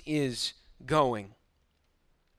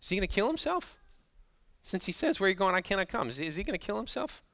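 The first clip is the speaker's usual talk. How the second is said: lightly mocking, softly tossed-off questions; mock him under your breath, ending in a question; understated sarcastic jeer; mocking sarcasm; 2 semitones higher, 5 dB quieter, faster than usual. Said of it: "I think this is mocking sarcasm here".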